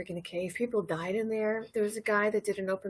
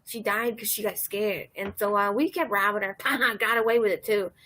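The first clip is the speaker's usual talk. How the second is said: chuckling storyteller impression; 4 dB louder than usual. Open-mic guy boasting to the audience about robbing people, imitated chuckling. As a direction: lightly imitate a man chuckling through his confession. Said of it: "he talks like this".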